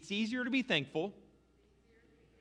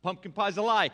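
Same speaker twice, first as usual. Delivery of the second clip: loud, emphatic denunciation; mock-indignant outburst; 3 semitones higher, 7 dB louder, faster than usual. Preacher denouncing pumpkin pie to congregation, loud mock outrage. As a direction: proclaim the scandal at volume.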